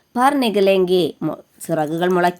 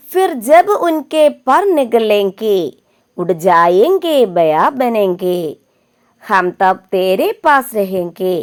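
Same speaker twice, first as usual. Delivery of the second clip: poem recitation; slower than usual. Acted. Teacher recites Hindi poem.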